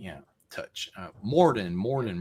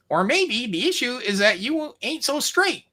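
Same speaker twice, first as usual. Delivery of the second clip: put-on higher-pitched lightly done Mexican accent; 11 semitones higher, slower than usual. Mob boss mocking the courier, light Mexican accent. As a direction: tease him in a thin Mexican accent. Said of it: "you're sounding more like Malkovich".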